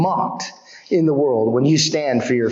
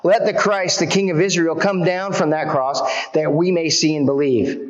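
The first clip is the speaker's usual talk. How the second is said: lightly sneering, pitched up; mocking chief priests; 3 semitones higher than usual. Chief priests mocking Jesus to one another, light sneer. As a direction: scoff at the one on the cross. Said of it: "mocked him to one another".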